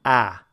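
"Ah" with a wide open jaw; ah vowel demo. Shown as a demonstration. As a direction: open the mouth fully on "Ah". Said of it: "when you say this sound".

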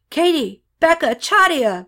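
acted shout, pitched well up; calling out names. A narrator's reading. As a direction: call urgently to scattered friends. Renee calls out to his friends.

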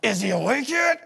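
laughing, slow mock-innocent reply; cheeky sass. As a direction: play the defiant kid. Boys sassing their mother.

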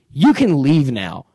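slow, deliberate imitation of a brush-off; blunt dismissal. Girl dismisses the man dancing near her, slow and blunt. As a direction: space out each word like a verdict. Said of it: "looks me right in my face".

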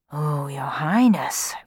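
slow stage whisper. A narrator's reading. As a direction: whisper it confidentially to the prince. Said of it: "Dandini whispered to the prince".

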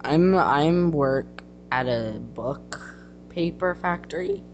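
lightly voiced bragging valley girl; name-drop with lazy likes. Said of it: "This is my brag character".

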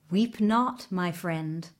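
calm a frightened friend; soothing. Acted. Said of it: "the little horse said soothingly".

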